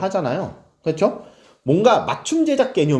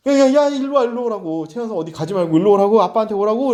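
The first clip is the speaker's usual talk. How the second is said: irritated calling; 4 semitones higher than usual. Retold or imitated. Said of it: "막 애한테 막 짜증내는 거야".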